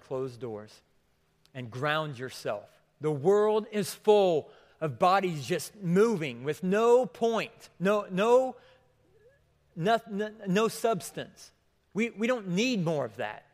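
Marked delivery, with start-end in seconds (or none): 3.0-13.4 much louder and higher, hammering each no; preaching at full force. Real, not acted. Preacher rising to a fervent peak for the church. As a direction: drive it home to the congregation.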